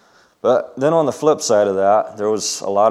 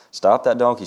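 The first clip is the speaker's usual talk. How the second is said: mildly raised call, "that" stressed and higher; cried out; 4 semitones higher, 3 dB louder than usual. Acted. Mother runs after the runaway donkey, mild shout. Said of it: "she cried".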